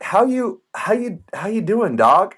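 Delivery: high, breezy mock-friendly hello; lightly acted chummy greeting; casual greeting. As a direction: play it like a buddy greeting a nervous salesman. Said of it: "I'm like".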